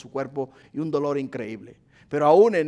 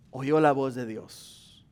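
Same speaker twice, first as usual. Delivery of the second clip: slow, lower "oyó la voz de Dios"; slow solemn line; 4 semitones lower, 3 dB quieter, slower than usual. Shown as a demonstration. Pastor telling how Pablo heard God, slow and solemn. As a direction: say it slowly, with weight. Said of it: "repeated slower".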